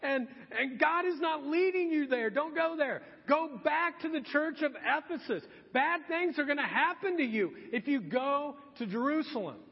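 high, urgent imitation of pleaders; mock tearful pleading. Weeping believers warning Paul, high mock-tearful plea. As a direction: plead with him through pretend tears. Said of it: "crying and they're weeping".

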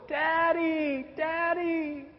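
put-on high, calling little-girl voice; child crying out. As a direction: call out like a scared small child. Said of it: "I heard her crying".

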